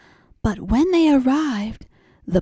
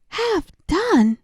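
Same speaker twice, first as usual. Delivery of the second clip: high, falling disbelief on Half; astonished; 9 semitones higher than usual. Acted. Mouse echoes the cat's answer in disbelief. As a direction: repeat it as if you can't believe it. Mouse hears the odd name.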